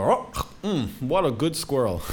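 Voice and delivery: high, hammed-up "mm, what a good squirrel"; mock relish. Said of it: "and go".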